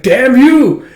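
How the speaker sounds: high, loud furious curse; angry shout. Retold or imitated. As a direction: spit the curse at an unseen attacker. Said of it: "He's like".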